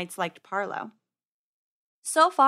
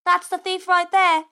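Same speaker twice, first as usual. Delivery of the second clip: high, loud character shout; shrieked accusation, pitched way up; accusing yell; 8 semitones higher, 8 dB louder than usual. A narrator's reading. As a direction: yell it out as the wronged owner. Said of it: "the owner yelled".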